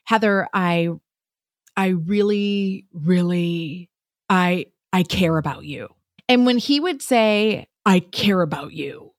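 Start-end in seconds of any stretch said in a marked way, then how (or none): 0.0-5.9 a light, halting take on Seth, slow on the really; a hint of Seth stammering out his feelings; lightly voiced boyfriend, hesitant and slow; Seth impression. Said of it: "I'm gonna do a Seth impression". 7.8-9.1 imitated boyfriend whispering; whispered. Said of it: "I'm gonna do a Seth impression".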